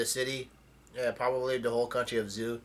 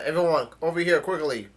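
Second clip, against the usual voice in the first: mild mock call-out, higher and louder at first; retold yell; 3 semitones higher, 4 dB louder than usual. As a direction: imitate calling everyone over, half-shouted. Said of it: "Chopper yells out".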